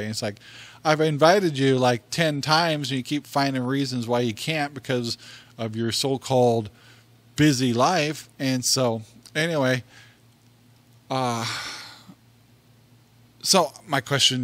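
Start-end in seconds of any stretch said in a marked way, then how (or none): 0.8-8.3 exasperated retort. Retold or imitated.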